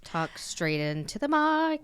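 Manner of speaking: slow breathy whisper into the mic. Shown as a demonstration. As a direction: whisper it right in their ear. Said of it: "Whisper into your mic's ears".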